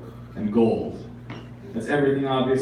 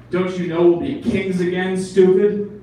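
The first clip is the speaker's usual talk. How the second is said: scornful pigeon; 5 semitones higher, 4 dB louder than usual. Acted. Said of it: "pigeons talk".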